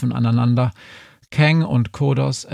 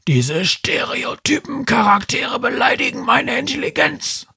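much higher, strange indignant alien voice; 13 semitones higher than usual. A narrator's reading. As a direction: rant like an offended alien snob. Kang keeps ranting. (empörte Alienstimme)

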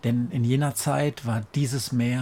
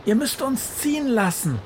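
calling out; 13 semitones higher than usual. A narrator's reading. Witch Befana calls to the fish swarm, demanding. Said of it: "ruft Befana".

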